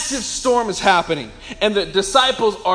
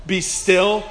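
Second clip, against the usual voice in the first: understated, even order; effortless command. Acted. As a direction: command plainly, with a slight lift at the end. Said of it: "all he has to do is".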